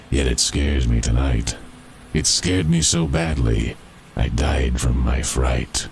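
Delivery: a skeleton warning the boys, lightly voiced; dead miner's ghost. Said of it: "and this is the story he told".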